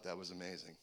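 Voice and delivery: very soft, low retold amazement; hushed awe. Boys to each other after escaping, hushed awe. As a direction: say it under your voice, awed.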